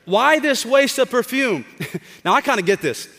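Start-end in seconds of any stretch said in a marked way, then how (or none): 0.0-1.7 high, slow mock indignation; indignant. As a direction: scoff at the waste. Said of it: "were saying indignantly".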